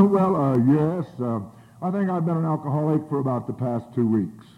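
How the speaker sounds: a hint of a polished formal voice; lightly formal businessman. Answering the businessman in kind, lightly formal. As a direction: put on a mild air of dignity. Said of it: "you better answer him in kind".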